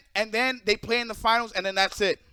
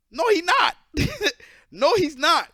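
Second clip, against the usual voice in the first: higher and louder flat denial; 6 semitones higher, 5 dB louder than usual. Real, not acted. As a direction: shout it down, no. Angry rebuttal of fans' claim.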